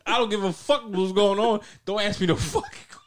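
insistent, mildly angry impersonation; mock mad. Retelling a friend's outburst during the game, mock mad. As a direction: imitate a fed-up friend refusing questions. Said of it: "you was mad".

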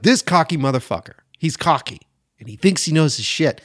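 lightly voiced scornful clerk; imagined clerk. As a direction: sneer at the cocky customer. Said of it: "Was she like".

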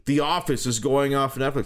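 high-pitched mock whine of dismay; put-on lament; mock complaining. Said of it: "when people were complaining".

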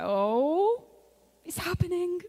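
high, thrilled whispery aside; excited gasp. Retold or imitated. Watching her friend cry in worship, excited and high. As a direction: squeal it under your breath with delight.

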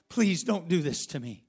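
begging a little stronger, voice lifting; rising plea. Acted. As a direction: plead harder with the brothers. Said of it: "pleading with them".

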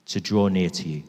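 low, measured prayer with long pauses; heartfelt prayer. Real, not acted. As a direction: personal plea to Jesus in prayer. Leads the congregation in prayer.

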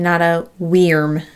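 weirm said as "weerm", rhyming with "fern". Shown as a demonstration. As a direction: read W Y R M as "weirm". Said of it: "Why is W Y R M a worm".

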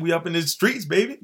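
playful brag. Real, not acted. Bragging playfully to co-host.

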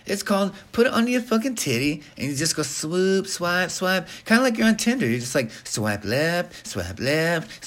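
high, chatty sponsor pitch; mock ad read. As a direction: sell it like a rambling, excitable parody advert. Performs a parody sponsor read.

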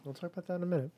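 hushed aside to co-host; whispering. Real, not acted. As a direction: whisper it back playfully.

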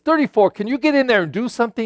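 lightly voiced gruff coach sending a player in; hurried call down the bench. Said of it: "looks on the bench and says".

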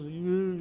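put-on crying noise; imitated crying. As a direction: briefly imitate a tearful whine. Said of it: "e chorava".

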